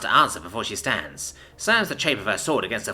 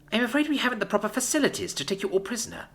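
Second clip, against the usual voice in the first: high, fast mocking sneer; 11 semitones higher than usual. A narrator's reading. Commander mocks the envoy's surrender offer with a sneer. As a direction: sneer out the polite refusal. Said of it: "she sneers".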